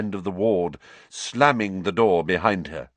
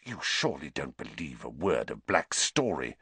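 whispered; 7 semitones lower, 6 dB quieter than usual. Acted. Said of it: "Snape whispered".

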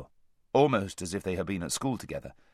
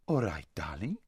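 languid, lower reply; lazy voice; 4 semitones lower, 4 dB quieter than usual. A narrator's reading. Lazareline giving in to her anxious friend, lazy voice. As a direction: agree lazily, as if nothing matters. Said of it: "in her lazy voice".

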